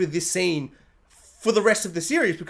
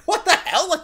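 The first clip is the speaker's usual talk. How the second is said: shocked; 7 semitones higher than usual. Retold or imitated. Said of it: "I'm like".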